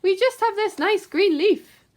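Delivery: little ants answering the rat; tiny ants. Acted. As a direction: squeak it all together. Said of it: "the ants replied".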